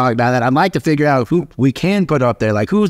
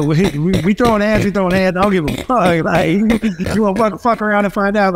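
hyped-up boast; 6 semitones higher than usual. Real, not acted. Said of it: "bragging about fighting".

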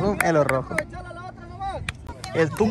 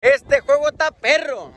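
high, slow emphatic call; excited exclamation; 5 semitones higher, slower than usual. Real, not acted. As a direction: announce how tough the game is. Exclaims over the hard match. (exclamación enfática)

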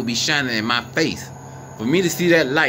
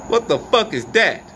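higher, louder alarmed question; alarmed shout; 8 semitones higher, 4 dB louder than usual. Real, not acted. Asking his viewers again about the light, he lets out an alarmed shout. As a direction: blurt it out in real alarm. Asks the third time, louder.

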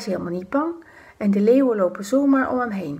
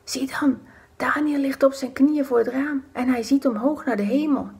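higher excited whisper; gleeful whispering plotters; 5 semitones higher than usual. Acted. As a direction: point and whisper with sly glee. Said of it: "Ze fluisteren". (fluisterende samenzweerders)

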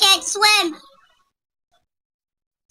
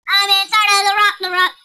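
loud; 4 semitones higher, 6 dB louder than usual. Pretend. Same chant repeated loudly.

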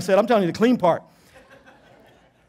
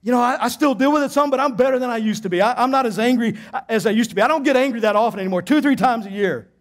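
self-excusing; 4 semitones higher than usual. Retold or imitated. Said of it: "here's your thought".

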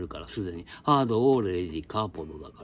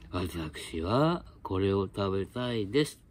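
model sentence; 2 semitones lower, 4 dB quieter, slower than usual. Shown as a demonstration. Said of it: "って言ってごらん".

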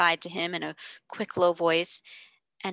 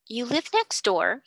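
demanding; 5 semitones higher, slower than usual. Acted. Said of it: "he demanded".

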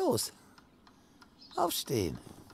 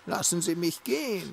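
mocking imitation; 3 dB louder than usual. Host mimicking his guest's plea, a mock whine.

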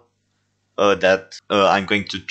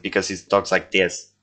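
Alan. Shown as a demonstration. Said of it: "his accent".

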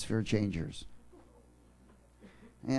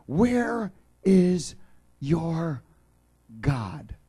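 "Where" thrown out louder and higher, then "your God" falls back; mocking enemies' taunt; 4 semitones higher, 4 dB louder, much slower than usual. Preacher repeats the enemies' taunt to the congregation, louder. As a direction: call out the taunt, hitting "Where" hard. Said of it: "everybody here has gone through it".

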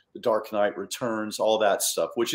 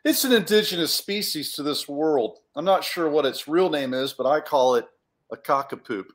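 a lightly voiced, slightly higher know-it-all; explaining character; 4 semitones higher than usual. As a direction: explain it matter-of-factly in character.

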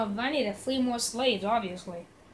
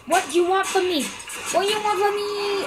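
mock taunt; 7 semitones higher, 3 dB louder, slower than usual. Taunting enemy orc.

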